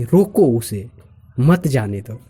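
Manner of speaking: "रोको उसे" as one command, then "मत जाने दो"; pause after उसे. Shown as a demonstration. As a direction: break before मत. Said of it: "सामने वाला बंदा सामने वाले को बोल रहा".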